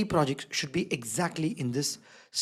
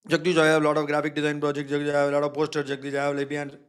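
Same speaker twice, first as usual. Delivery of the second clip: a hint of an eager student asking, a little lower; lightly voiced student; 4 semitones lower than usual. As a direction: mimic a student pleading with the teacher. Students' questions voiced by teacher.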